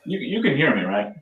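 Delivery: tinny, thin voice through a poor mic; like talking through a tin can; tin can phone. Real, not acted. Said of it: "It kinda sounds like you're talking through a tin can".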